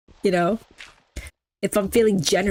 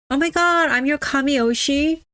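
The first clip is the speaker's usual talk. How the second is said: excited squeal; 7 semitones higher than usual. Real, not acted. Thrilled at becoming top fan.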